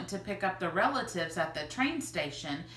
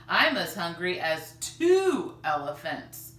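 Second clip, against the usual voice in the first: louder grandfather voice; a hungry grandfather grumbling; 7 dB louder than usual. Acted.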